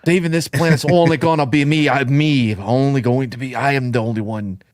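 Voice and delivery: horrible put-on American accent; hammed-up bad American movie accent; Gerard Butler. Mocking the actor's accent to friends, bad American accent. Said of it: "His American accent is horrible".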